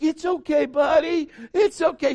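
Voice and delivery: high, cooing reassurance; comforting father. Retold or imitated. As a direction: soothe a little child in a high voice. Father comforts crying son.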